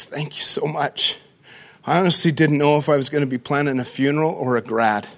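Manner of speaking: a mother barely holding back tears; tearful thanks. Retold or imitated. Mother thanking the church for her daughter's gown, softly tearful.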